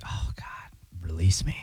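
breathy mock plea whispered; whispering.

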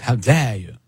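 "How dare you" in a light imitation of Greta Thunberg; half-hearted mock of an indignant activist; lightly voiced Greta Thunberg outrage. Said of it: "like Greta Thunberg".

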